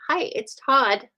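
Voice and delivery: lightly acted caller's greeting; Todd. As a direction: imitate a man introducing himself on the phone, drawn out. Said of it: "this guy says".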